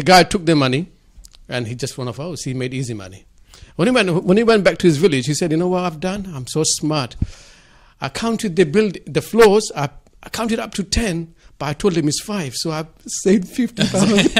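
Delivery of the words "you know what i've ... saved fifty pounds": higher, proud and smug; boastful. Retold or imitated. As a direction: brag about being clever. Villager boasting in joke.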